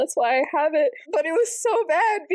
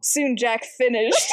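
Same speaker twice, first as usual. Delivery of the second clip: normal talking voice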